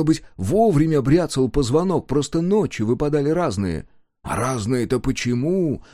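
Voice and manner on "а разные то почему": usual speaking voice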